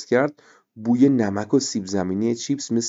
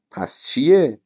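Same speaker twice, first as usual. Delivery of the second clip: laughing; 5 semitones higher, 4 dB louder, slower than usual. A narrator's reading. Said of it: "ریحانه خندید و گفت".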